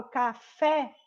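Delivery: "café" with a wide open é at the end; open final vowel. Shown as a demonstration. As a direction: open the mouth on the stressed fé of "café". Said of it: "eu abro mais a boca".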